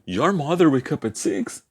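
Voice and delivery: slow question tune, pitched high on "mother"; question intonation. Shown as a demonstration. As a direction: ask "Your mother wake up at six?" by melody alone, slowly. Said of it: "e fazer essa entonação". (entonação de pergunta, lenta, com "mother" agudo)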